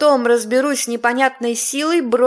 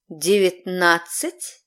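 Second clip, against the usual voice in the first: demonic layered voice; 4 semitones lower, much slower than usual. Acted. Demon questions the count.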